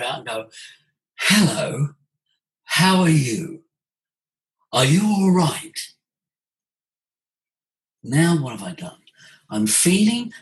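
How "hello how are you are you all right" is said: slower, spaced, felt greeting; breath-supported greeting. Shown as a demonstration. Coach showing the audience a greeting felt in the body. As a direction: breathe in deep and let each word land. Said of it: "deep breath in and feel the sound in your body".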